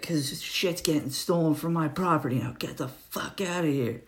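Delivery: retold livid rant. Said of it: "he's livid already".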